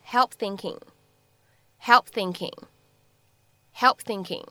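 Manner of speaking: "help thinking" linked with p closed but not released; incomplete plosive. Shown as a demonstration. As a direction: hold back the p of "help" into "thinking". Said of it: "会有一个不完全爆破的处理".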